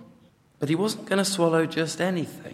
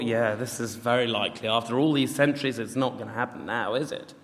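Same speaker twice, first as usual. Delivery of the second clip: low, softer sarcastic aside; doubting sceptic; 4 semitones lower, 4 dB quieter than usual. Acted. Sceptics who had given up waiting, dryly dismissive. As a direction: grumble it doubtfully, voice dropped. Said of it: "there were skeptics".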